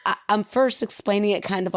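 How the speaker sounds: indignant protest. Retold or imitated. Wife protests her husband cutting into her explanation, indignant. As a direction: push back at being cut off, half in jest.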